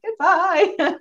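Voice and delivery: high, drawn-out teary goodbye; high mock-sentimental goodbye; emotional husband goodbye. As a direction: lightly mimic the husband's heartfelt farewell. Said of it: "can you see the difference?".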